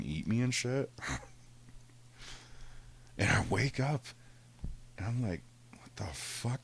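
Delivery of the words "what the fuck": breathy whispered shock, barely voiced. Waking from the lion nightmare, a whispered what the fuck. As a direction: whisper it in disbelief.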